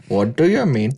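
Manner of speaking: low mock Indian accent. Shown as a demonstration. Friend showing his limited Indian accent, mock accent. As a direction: lightly put on an Indian accent. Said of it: "you can't do an Indian accent".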